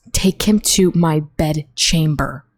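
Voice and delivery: slow, emphatic quote of a queen's order; Regina. Retold or imitated. Repeating Regina's order to stress the quote, slow mock command. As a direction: spell out the command with lightly mocked authority. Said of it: "I'm quoting that".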